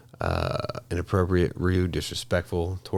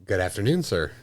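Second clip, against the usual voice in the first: posh formal talk. Retold or imitated. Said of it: "You're not gonna talk how to talk".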